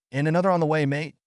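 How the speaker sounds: put-on English accent. A narrator's reading. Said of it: "the chef's English accent".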